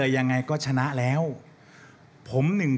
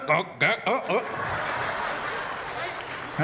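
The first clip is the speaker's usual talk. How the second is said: put-on drunk stagger; 3 semitones higher, 4 dB quieter, much slower than usual. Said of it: "แม่งไอ้โน้ตเดินอ่ะ".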